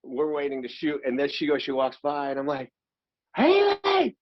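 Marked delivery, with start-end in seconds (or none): 3.3-4.2 high, loud call across the set. Retold or imitated. Actor calling across the set to his co-star, loud high call. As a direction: shout her name to get her attention.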